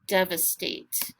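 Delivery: DEVASTATE slowly as dev, a, state; three separated beats on devastate, v closing the first; split into syllables. Shown as a demonstration. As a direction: break devastate up for a speller. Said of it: "let's do our syllables".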